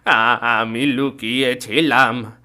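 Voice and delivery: slow, loud, stammering plea; terrified confession. Acted. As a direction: beg the ghost for mercy. Haridas confesses in fear.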